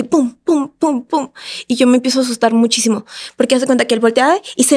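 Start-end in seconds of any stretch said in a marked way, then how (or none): 0.0-1.3 percussive spoken "pum", repeated in little bursts; imitated rapid switching. Woman showing how her ex switched personalities, imitated switching. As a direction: punch out each pum like a switch flipping. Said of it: "Empieza a cambiar de personalidad así".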